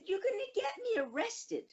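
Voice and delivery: high-pitched exasperated mom telling off her son; retold scolding yell. Mother telling her son off at school, retold scolding. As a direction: scold the child in a high, pleading voice. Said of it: "that's how I yelled at the".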